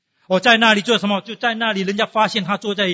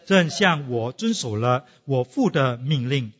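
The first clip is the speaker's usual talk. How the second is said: congregation reading aloud; 5 semitones lower, slower than usual. Shown as a demonstration. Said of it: "一起读".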